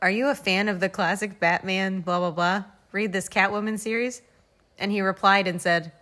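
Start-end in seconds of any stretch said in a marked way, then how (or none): none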